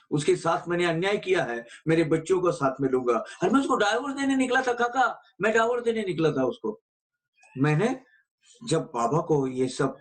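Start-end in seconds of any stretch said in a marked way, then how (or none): 3.2-6.8 anguished confession. Retold or imitated. Caller confessing, voice raised.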